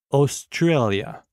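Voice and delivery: Australia said slowly, each syllable drawn out; slow teacher's echo of Australia; slow repeat. Shown as a demonstration. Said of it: "Écoutez et répétez après moi".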